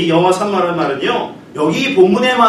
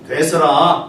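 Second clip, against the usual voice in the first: Jeolla dialect; slower than usual. Shown as a demonstration. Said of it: "전라도에서는".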